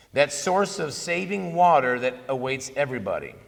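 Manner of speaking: slow, deliberate reading with pauses between phrases. Real, not acted. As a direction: read the quotation out slowly, letting each phrase settle. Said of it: "I'll read it slow".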